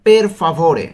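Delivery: "per favore" sounded out clearly, word by word; careful pronunciation. Shown as a demonstration. Teacher showing learners how to pronounce it, careful pronunciation. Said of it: "উচ্চারণগুলো ভালো মতো খেয়াল করব".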